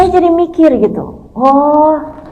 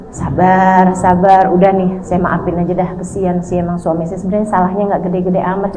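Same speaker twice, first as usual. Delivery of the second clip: low, soft self-talk; composing her heart; 7 semitones lower, 5 dB quieter than usual. Acted. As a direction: talk yourself into patience, under your voice. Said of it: "udah mulai nata hati". (menenangkan diri dengan suara pelan dan rendah)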